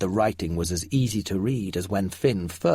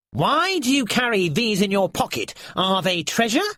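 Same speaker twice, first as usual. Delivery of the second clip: curious creature; 9 semitones higher than usual. A narrator's reading. Nylar questions Finn.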